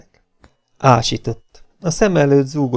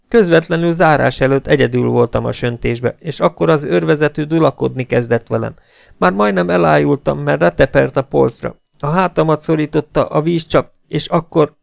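a hint of an agitated young woman, louder; lightly voiced girl testifying; 5 semitones higher, 4 dB louder than usual. Girl recounting the corporal's attack to the captain, agitated. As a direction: tell it fast, getting worked up.

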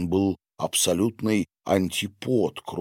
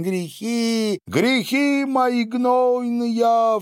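very high, slow wailing outcry in a strange voice; shrill cry; 3 dB louder, much slower than usual. Acted. Agafya cries out about her sins while throwing an apple, high wail. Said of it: "вскрикнула Агафья".

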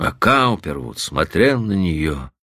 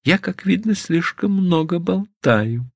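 inner thought; 10 semitones higher than usual. Acted. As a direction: think it to herself in a high voice. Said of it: "подумала Стефани".

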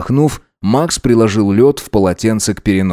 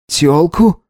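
higher-pitched rising question; stunned disbelief; 7 semitones higher than usual. A narrator's reading. Gideon learns of Alex's affair, stunned and disbelieving. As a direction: echo the word upward in disbelief.

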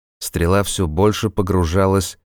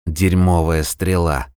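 muttered curse; slower than usual. Acted. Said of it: "ругнулся травник".

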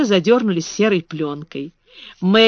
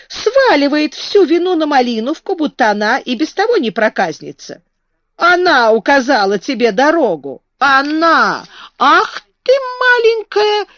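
enraged gardener; 7 semitones higher, 4 dB louder than usual. A narrator's reading. Ben raging at Mary.

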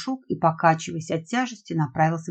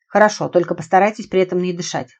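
strained hoarse voice under weight; hoarse wheeze; 5 dB louder than usual. Acted. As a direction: rasp it out straining. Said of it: "прохрипел Константин".

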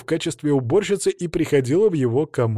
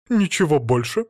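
suspicious echo; 3 semitones higher than usual. Acted. Captive questions, suspicious.

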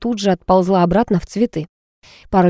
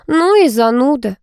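disappointed drawl; 6 semitones higher than usual. A narrator's reading. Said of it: "разочарованно протянула подруга".

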